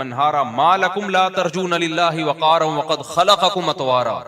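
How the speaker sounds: flowing melodic recitation, pressing forward; Quran recitation. Acted. Preacher reciting Nuh's plea as he does at fajr, melodic recitation. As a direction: recite the verses in one sweeping chant.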